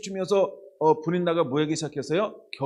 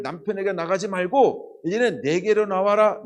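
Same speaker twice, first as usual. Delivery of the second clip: voice of God calling; 4 semitones higher than usual. Acted. Preacher voicing God calling Hannah.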